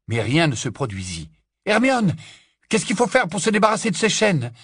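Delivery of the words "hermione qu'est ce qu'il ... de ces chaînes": raised, high-pitched question; urgent call. Acted. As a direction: call for help under pressure. Urgent call while trapped. (appel pressant, voix haute et forte)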